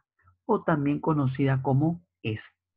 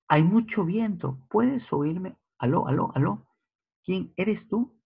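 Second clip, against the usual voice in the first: mock phone caller; 6 semitones higher than usual. Acted phone call, bad line.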